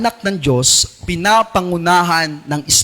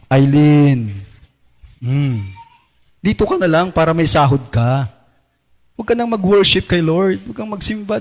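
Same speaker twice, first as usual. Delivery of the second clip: tempting voice; 2 semitones lower than usual. Acted. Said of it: "gusto, bumubulong, nangangalabit".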